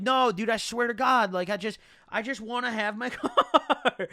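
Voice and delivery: high-pitched pleading, last word dragged out; mock pleading whine. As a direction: whine at your mom, stretching the final word. Pleading with mom in retold argument.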